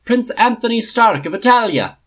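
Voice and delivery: herald's booming call; resounding announcement. Acted. Captain announces the prince to the king, loud and ringing. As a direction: ring it out high and loud across the hall. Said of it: "announced in a resounding voice".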